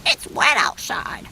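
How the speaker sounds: high, airy little hen voice; worried hen. A narrator's reading. Hen asks Blue for shelter, high and anxious. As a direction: squeak it out like a nervous hen. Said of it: "said Hen".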